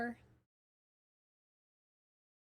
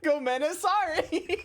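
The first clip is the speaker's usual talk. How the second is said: high, slow Southern take on Japanese; imitating Southern-accented Japanese; 4 dB louder, slower than usual. Streamer echoing the video, mock Southern accent. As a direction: echo the Southern accent, drawn out and amused. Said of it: "Japanese in a southern accent".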